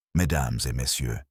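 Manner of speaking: a lightly voiced polite French greeting, barely changed; gentle courtesy. A narrator's reading. Poirot opening the gathering of suspects, lightly voiced gentle courtesy. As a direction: greet the room with understated courtesy. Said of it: "Poirot began with gentle courtesy".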